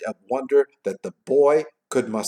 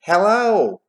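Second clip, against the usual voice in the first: put-on high, loud boy's shout; yelled reply; 10 semitones higher, 9 dB louder than usual. A narrator's reading. Boy returning Scrooge's greeting, yelling. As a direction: holler it back up, falling at the end. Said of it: "He yelled".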